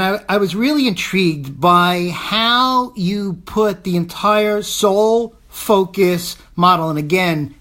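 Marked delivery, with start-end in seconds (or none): 4.6-6.4 "Soul" drawn out and set apart in "Soul Focus"; stress on Soul. Real, not acted. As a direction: lean on the word "Soul", stretching it before "Focus". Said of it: "emphasis on the word soul".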